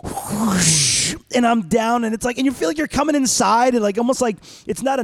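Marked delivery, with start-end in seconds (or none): 0.0-1.2 rushing whoosh of a coaster drop; imitated whoosh. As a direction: make the sound of a sudden plunge. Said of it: "you hear this".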